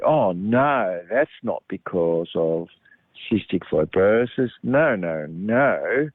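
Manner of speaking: mock protest, swooping pitch on the no's; dismissive denial. People rejecting an explanation for their dizziness, mock dismissive. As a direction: imitate someone brushing off a diagnosis in singsong.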